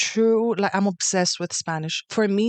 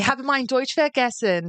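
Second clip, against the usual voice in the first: German accent; 3 semitones higher than usual. Shown as a demonstration. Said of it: "let's do the accent challenge".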